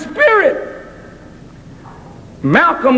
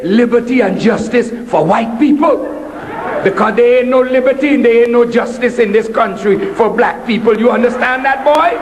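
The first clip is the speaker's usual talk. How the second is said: stern mother; 3 semitones lower, faster than usual. Retold or imitated.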